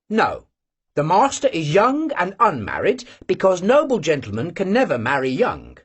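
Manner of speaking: didactic. Acted. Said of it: "said Vanyusha didactically".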